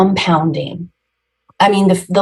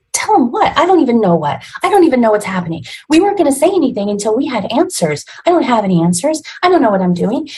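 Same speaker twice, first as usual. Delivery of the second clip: higher and fast, frantic and bewildered; panicked outburst; 6 semitones higher, faster than usual. Retold or imitated. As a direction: blurt it out in a rush, pitch climbing. Husband asks, she answers panicked.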